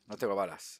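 ordinary delivery

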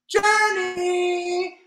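high calling voice. Acted. Mom calls her daughter, loud and high. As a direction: call her name across the house. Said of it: "called Mom".

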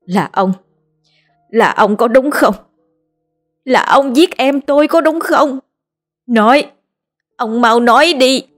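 high, accusing outcry; furious accusation. A narrator's reading. Linh grabbing Bành's collar, furious outcry. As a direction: demand the truth from the killer. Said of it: "túm cổ ông Bành kêu lên".

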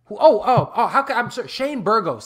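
real excitement, laughing partway through; excited sudden recall. Real, not acted. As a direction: burst in as it comes back to you. Suddenly remembers a fight he left out.

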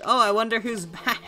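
planned quip broken by a laugh; laughing joke line. Retold or imitated. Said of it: "I was gonna make, like, a cool joke".

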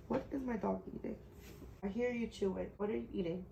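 soft, quick aside to the dog; hushed aside. Real, not acted. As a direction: murmur to the dog. Asking dog what it eats.

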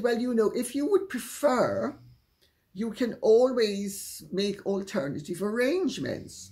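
retold polite offer to a difficult guest; strained politeness. Host offering an older guest a way out, politely. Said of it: "I had to be polite".

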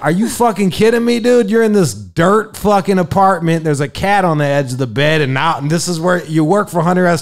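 can't believe what he's hearing; outraged disbelief at the girl; incredulous outrage. Retold or imitated. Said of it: "I'm like".

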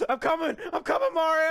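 hurried rescue call. Real, not acted. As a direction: shout that help is on the way. Rushing to help teammate.

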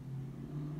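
strained, hollow laugh; forced laugh. Acted. Wife laughing off husband's joke, forced laugh. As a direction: laugh as if close to tears. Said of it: "I'm laughing".

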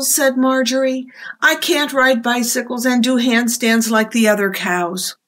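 lively picture-book read-aloud; reading to children. A narrator's reading. Librarian reading a storybook to children, lively. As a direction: tell it to the little ones with expression.

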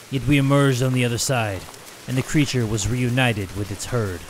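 low, measured storyteller; story narration. Acted. Reads game text.

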